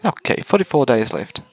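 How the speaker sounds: put-on high, bright girlish voice; cheerful robot girl voice. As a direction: chirp it like a cute robot. Robot speaks.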